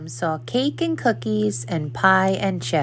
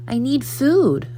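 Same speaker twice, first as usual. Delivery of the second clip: higher puppy plea; pleading puppy; 7 semitones higher, 4 dB louder than usual. A narrator's reading. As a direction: beg like a hungry puppy. Puppy begs again.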